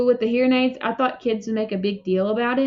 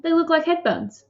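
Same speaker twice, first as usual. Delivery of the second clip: higher, forced cheerful reassurance; trying to be cheerful; 7 semitones higher than usual. A narrator's reading. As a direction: keep the brave cheerful tone. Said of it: "trying to be cheerful".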